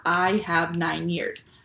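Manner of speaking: drawn out, each word weighed; slow literal version. Shown as a demonstration. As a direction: spell out the odd literal phrasing slowly. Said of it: "it would sound a little funny".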